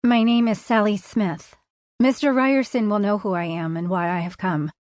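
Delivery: put-on flat, even Midwestern accent. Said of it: "in the flat Midwestern accent she'd adopted".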